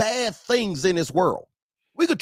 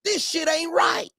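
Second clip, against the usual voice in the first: indignant outburst; 9 semitones higher than usual. Retold or imitated. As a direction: say it like you just can't stand it anymore. Voicing himself calling out wrong.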